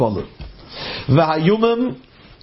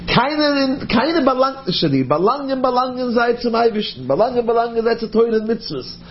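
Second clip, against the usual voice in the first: higher, insistent rebuke; indignant retort; 5 semitones higher than usual. Acted. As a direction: push back hard, defending the Jews. Angel retorts to Samach Mem.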